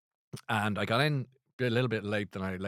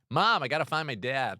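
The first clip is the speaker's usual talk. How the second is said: mock modern kid; 4 semitones higher than usual. Shown as a demonstration. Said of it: "not like they're lost in a shopping centre".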